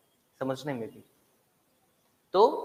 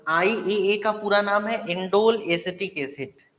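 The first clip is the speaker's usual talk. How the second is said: indole stressed, phrase slowed; emphasise the name; 4 semitones higher, slower than usual. Shown as a demonstration. Teacher stressing the full name for students to note. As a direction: lean on indole, slow and clear. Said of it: "अब बच्चे जरा ध्यान देना".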